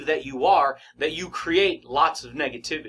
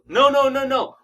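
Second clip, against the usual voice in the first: emphatic rejection; 7 semitones higher, 4 dB louder than usual. Acted. Coach voice rejecting his excuse.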